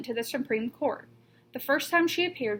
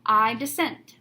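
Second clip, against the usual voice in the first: louder, firm declaration; emphatic dissent; 5 dB louder, slower than usual. Retold or imitated. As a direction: state it with conviction. Quoting the justice's famous dissent.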